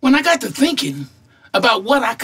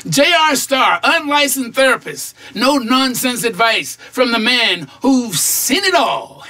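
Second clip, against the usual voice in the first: ad pitch. Acted. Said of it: "I could put an ad in the paper".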